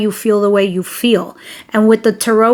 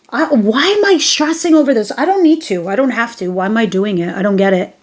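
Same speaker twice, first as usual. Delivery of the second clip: mock exasperation; faster than usual. Reader voicing the viewer asking why they are stressing, exasperated. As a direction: act out baffled frustration, easing off at the end. Acted exasperated realisation after "be like.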